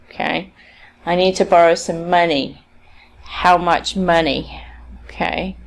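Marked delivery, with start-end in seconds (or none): 1.0-2.6 final "money" carries the sentence stress. Shown as a demonstration. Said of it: "that sounds very strange". 3.2-4.6 slow question with "money" stressed instead of "much"; misplaced stress on money. Shown as a demonstration. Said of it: "that sounds very strange".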